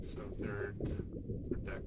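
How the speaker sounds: whispering to self. Real, not acted. Reading to self quietly.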